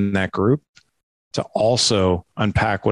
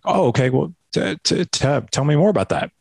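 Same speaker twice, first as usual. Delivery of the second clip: bright, higher, inviting tone; gentle curious dad; 6 semitones higher than usual. Retold or imitated. Father gently inviting his son to talk, warm and curious. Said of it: "Instead, I'll be like".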